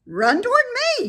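high, loud, fast gander yell; shrieking high gander call. A narrator's reading. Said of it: "yelled the gander".

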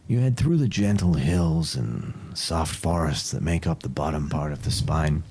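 steady storyteller narration; story narration. Acted. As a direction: paint the journey for the players. GM sets the scene.

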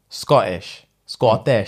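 the word in a Scottish accent. Shown as a demonstration. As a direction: give it a Scottish lilt. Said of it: "sounds like in their accent".

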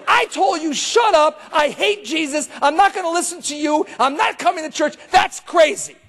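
imitating a fed-up woman refusing church; angry woman. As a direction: play the annoyed girl snapping back. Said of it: "She goes".

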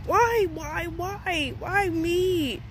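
high, wailing lament; exasperated. Real, not acted. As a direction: plead upward in mounting frustration, falling off each time. Exasperated venting, repeated lament.

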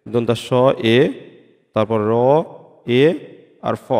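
দন্তা স, এ, র, এ, ফ each said apart with pauses; sounding out স্রেফ. Shown as a demonstration. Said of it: "extra একটা এ আসতেছে". (স্রেফ ধ্বনি ভেঙে উচ্চারণ)

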